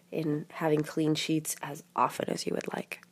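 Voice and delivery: sick voice, cough drop in mouth. Real, not acted. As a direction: talk through a cold and lozenge. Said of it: "through my sick voice with my cough drop".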